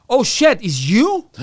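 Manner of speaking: high, loud startled exclamation; surprised recognition. Retold or imitated. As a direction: caught off guard seeing him. ICE officer recognises him.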